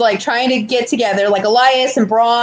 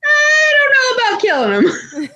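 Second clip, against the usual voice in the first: much higher timid voice; Daniel Bryan impression; 13 semitones higher than usual. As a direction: play the reluctant nice guy. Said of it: "Daniel Bryan's like".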